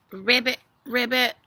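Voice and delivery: imitated frog croak, twice; simple ribbit noise for little kids. Imitates frogs while reading to children.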